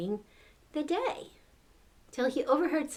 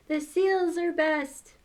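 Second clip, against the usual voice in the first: character voice; 8 semitones higher, 4 dB louder, slower than usual. Acted. Edward's quote read in character.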